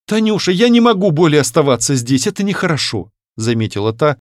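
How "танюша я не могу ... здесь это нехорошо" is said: put-on young woman holding back tears, higher; young woman to a little girl, mildly tearful. A narrator's reading. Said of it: "смахивая набежавшие на глаза слёзы".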